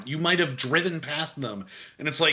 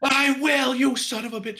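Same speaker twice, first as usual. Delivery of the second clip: put-on higher, gritty Brooklyn cop accent; 10 semitones higher than usual. Detective vowing to crack the cold case in a Brooklyn accent. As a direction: swear it like a stubborn Brooklyn detective. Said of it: "I think I was doing kind of maybe Brooklyn".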